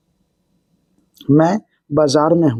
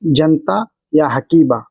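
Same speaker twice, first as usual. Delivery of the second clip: slow demo; slower than usual. Shown as a demonstration. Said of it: "उसको अरबी बोलेंगे".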